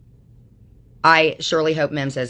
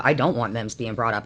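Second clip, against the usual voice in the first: mock scolding; 5 semitones lower than usual. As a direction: parrot the scold back with a sneer. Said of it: "I'm like".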